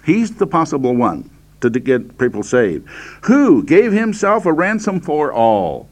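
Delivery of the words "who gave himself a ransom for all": emphatic scripture reading. Real, not acted. Preacher declaiming emphasised scripture verse.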